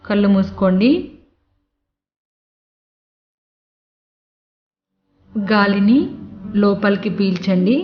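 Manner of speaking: slightly softened meditation voice with long pauses; guided meditation. Acted. Teacher talks listeners through breathing in and out, guided meditation. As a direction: gently guide a breathing exercise, pausing between phrases.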